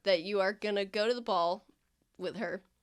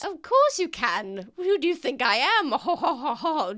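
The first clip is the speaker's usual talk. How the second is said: higher, louder, with a ho ho laugh; haughty lady laugh; 6 semitones higher, 4 dB louder than usual. Acted. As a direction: laugh it off grandly. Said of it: "Lady Gwynth laughs".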